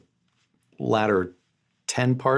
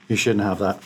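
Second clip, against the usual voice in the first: put-on voice. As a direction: play a pompous celebrity. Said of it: "why are you talking like that".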